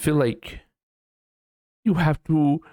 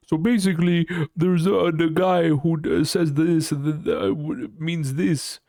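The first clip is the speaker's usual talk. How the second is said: a hint of a mother explaining, higher; explaining like mom; 6 semitones higher than usual. Streamer mocking himself as his mother, higher pitched. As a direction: lightly mimic mom over-explaining. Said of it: "I'm having to explain a meme and be like".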